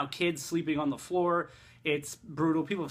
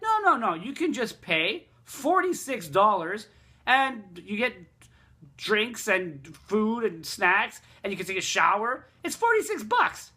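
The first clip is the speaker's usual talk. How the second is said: higher, lightly mocking imitation of the bar girls; imitating the lounge staff; 3 semitones higher than usual. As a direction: mimic the staff's sing-song sales pitch, higher. Bar girls explain the lounge price.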